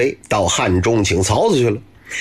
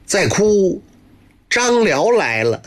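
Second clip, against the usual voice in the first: mother's threat; 8 semitones higher, slower than usual. Acted. Mother threatens with Zhang Liao.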